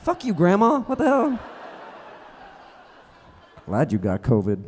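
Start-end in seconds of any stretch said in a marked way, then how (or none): 0.0-1.4 loud, high indignant yelp; a hammed-up cry of betrayal at grandma; loud high mock-offended shout; mock outrage.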